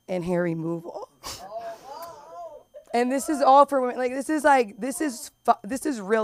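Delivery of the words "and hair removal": laughing till crying. Real, not acted. Laughing-crying at kiosk list.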